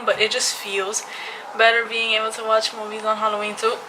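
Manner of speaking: talking slightly out of breath; a little winded while speaking. Real, not acted. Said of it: "I'm out of breath when I talk".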